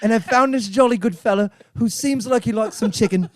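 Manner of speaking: lightly acted English office pitch; a hint of earnest English staffer; English employee pitching. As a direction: plead your case to the board, mildly English. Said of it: "say it in his accent".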